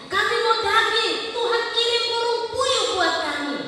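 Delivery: high, loud, joyful thanksgiving with a laugh; exultant praise. Acted. Israelites praising God for the desert journey, loud and joyful. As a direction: shout the wonders of God in joy. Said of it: "mereka ingat perjalanan mereka".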